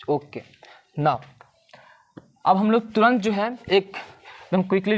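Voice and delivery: whispered aside to the class; hushed whisper announcing a quick recap. Real, not acted. Sudden whisper mid lesson.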